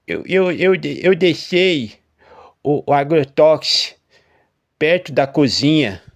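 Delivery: high, loud, stammering confession; voice failing. A narrator's reading. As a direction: falter through a guilty confession. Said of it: "com a voz falhando".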